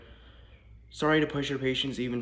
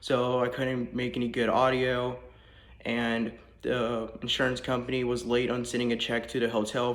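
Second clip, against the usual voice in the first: echoey voice in a bare room; big hall echo on the voice. Real, not acted. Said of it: "I apologize for my echoing voice".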